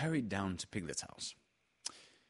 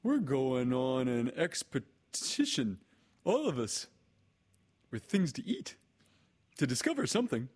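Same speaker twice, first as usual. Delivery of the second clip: excited announcement, pitched up; excited Pooh; 4 semitones higher than usual. A narrator's reading. Pooh tells Piglet of the expedition, excited. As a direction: share big news eagerly. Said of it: "said Pooh excitedly".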